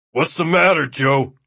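anxious concern for a friend; worried. A narrator's reading. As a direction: ask with a worried edge. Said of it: "edged with great worry".

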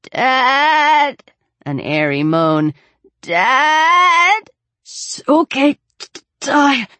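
put-on a boy crying for his father, stammering; frightened boy calling. A narrator's reading. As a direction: call out for Dad in panic. Frightened boy calls for dad.

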